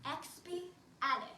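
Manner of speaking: slowly spelled out, syllable by syllable; teaching a word slowly. Shown as a demonstration. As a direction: sound it out slowly for kids to copy. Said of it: "So say it with me".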